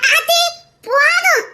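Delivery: high, giggling embarrassment; embarrassed giggle at the teasing; shy laughing protest. Acted. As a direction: laugh it off bashfully. Daughter-in-law teased, shy.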